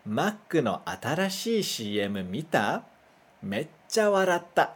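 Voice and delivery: "Mac no atarashii C M mita? Meccha waratta." read slowly in careful Japanese; teacher reads "Mac no atarashii C M mita? Meccha waratta." for the class to repeat; "Mac" as "makku", "C M" as "shii emu"; slow Japanese model sentence. Shown as a demonstration. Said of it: "Mais uma vez".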